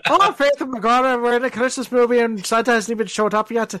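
light comic Irish lilt; lightly put-on Irish accent; mock Irish accent. Co-host voicing the Christmas movie's characters, mock Irish accent. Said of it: "all the Irish accents in this scene".

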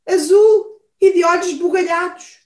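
high, loud, rushed; excited exclaim. Acted. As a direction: blurt it out excitedly. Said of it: "exclamou o alce".

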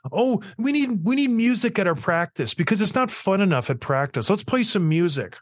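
high, mock-whiny spoiled player voice; hammed-up whining of pampered players. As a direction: imitate a spoiled athlete begging, nasal-free but whiny. Mocking players' demands.

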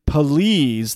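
all caps emphasis. Retold or imitated. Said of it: "that's in all caps".

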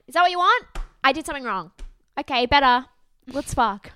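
imitating a boyfriend who can't be bothered to apologise; hammed-up exasperated non-apology; mock unremorseful. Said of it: "doesn't even say it with, like, remorse in his voice".

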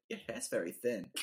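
imitating a Chinese accent, lightly; a hint of a Chinese-accented hairdresser; mock Chinese accent. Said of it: "that was probably an offensive accent".

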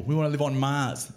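lightly mock a rich person wanting Mars; rich people. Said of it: "just rich people".

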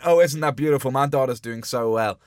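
imitated delighted parent; gushing proud parent. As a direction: gush as the family hearing good news. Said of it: "they're all going".

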